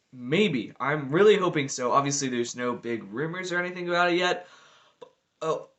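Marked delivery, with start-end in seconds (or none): 5.4-5.7 hiccup. Real, not acted. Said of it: "that was a hiccup".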